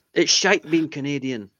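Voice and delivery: jokey put-on Scottish accent. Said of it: "said it in a Scottish accent".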